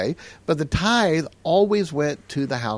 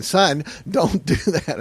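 slow, drawn-out warning to a son; retold dad's slow plea; firm fatherly caution; 4 semitones higher, much slower than usual. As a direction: stretch it out like a worried dad. Dad firmly cautioning his son.

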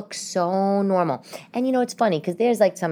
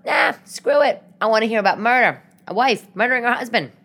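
mock gleeful excitement; 6 semitones higher, 4 dB louder than usual. Gleefully choosing murder shows over comedy.

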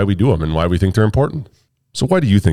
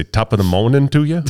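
higher, put-on British greeting; mock British accent; 4 semitones higher than usual. Shown as a demonstration. Host testing greetings on co-hosts, mock British accent. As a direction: try a hammed-up British greeting. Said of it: "my British accent".

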